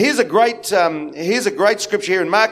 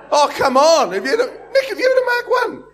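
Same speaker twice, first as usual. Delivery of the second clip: much higher, laughing through the question; laughing tease; 11 semitones higher than usual. Real, not acted. Pastor teasing Nick about old cars, laughing high. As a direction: egg the congregation on, giggling.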